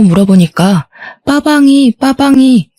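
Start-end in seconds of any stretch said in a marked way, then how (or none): 1.2-2.7 put-on high, childlike babbling of a small child; lightly voiced little kid calling for his car; toddler voice. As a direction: imitate a toddler asking for his toy car. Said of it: "하더라고요".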